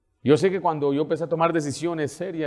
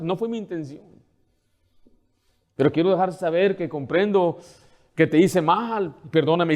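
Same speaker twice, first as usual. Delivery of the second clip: sincere apology; 2 semitones higher than usual. Shown as a demonstration. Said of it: "deja saber".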